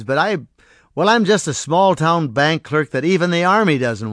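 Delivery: loud, bitter outburst; crying out. Acted. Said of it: "George cried".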